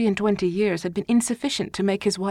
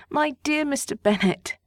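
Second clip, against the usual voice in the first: a higher, lightly voiced eager wife; wife's eager voice; 8 semitones higher than usual. A narrator's reading. Wife calling Mr Bennet, higher eager voice. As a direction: call to him brightly as his wife.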